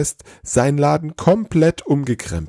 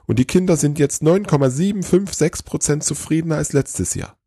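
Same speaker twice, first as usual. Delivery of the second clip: high-pitched, gushing elf voice; excited elf; 7 semitones higher than usual. A narrator's reading. Elf pitches the Easter Bunny's overhaul to Santa, excited. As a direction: rave about it in a high, eager voice. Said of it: "immer noch aufgeregt".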